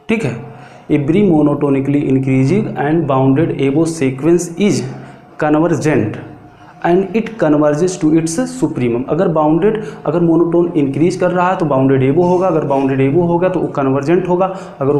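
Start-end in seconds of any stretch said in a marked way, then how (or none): 0.9-9.0 very slow, word by word, for note-taking; slow dictation. Shown as a demonstration. Teacher dictating a theorem to the class, very slow and deliberate. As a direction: spell it out slowly so students can write.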